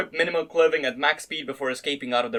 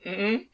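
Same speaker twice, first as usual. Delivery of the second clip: higher-pitched soft moan, mildly voiced; 8 semitones higher than usual. A narrator's reading. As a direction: let a soft sound slip out. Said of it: "Asuna let out a soft moan".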